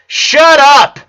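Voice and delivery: sudden loud high shout; yelled. A narrator's reading. Lincoln shouting his sisters into silence, furious. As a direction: snap it out as a furious yell. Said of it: "he yelled".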